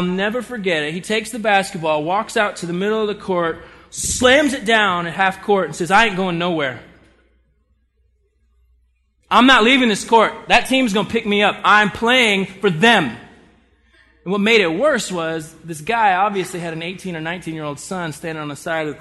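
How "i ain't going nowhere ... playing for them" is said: louder, stubborn declaration, last words slowed; defiant retold yell. Dad on the court refusing to leave, defiant loud yell. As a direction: plant your feet and refuse to budge.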